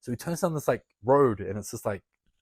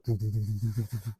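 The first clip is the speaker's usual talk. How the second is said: heartbeat noise. Retold or imitated. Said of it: "my heart was like".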